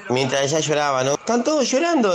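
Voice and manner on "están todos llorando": put-on child's report, much higher; voz de niño. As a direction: say it like a confused little boy. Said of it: "le digo". (voz aguda de nene confundido)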